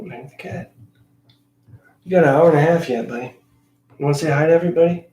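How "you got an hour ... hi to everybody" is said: talking to cat. Real, not acted. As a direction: coax the cat, fast.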